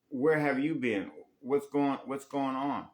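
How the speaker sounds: mock exasperated partner asking where they went. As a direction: press harder, like the partner who is fed up. Confronting a partner who vanished.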